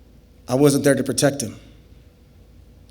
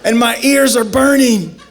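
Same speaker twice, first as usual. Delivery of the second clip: frantic rant; 6 semitones higher than usual. Retold or imitated. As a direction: ramble in burning panic. Rambling while burning from pepper.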